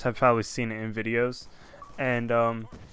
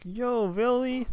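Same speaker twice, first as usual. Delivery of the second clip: mock half-asleep "really?", much higher and slow; sleepy disbelief; 10 semitones higher, slower than usual. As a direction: drawl it like a parent just woken up.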